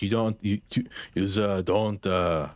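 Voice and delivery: badly faked French accent, halting; failed French accent. Streamer guessing at a French rapper fan's reply, failed French accent. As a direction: attempt a French accent and stumble over it. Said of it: "that's not the accent I wanted".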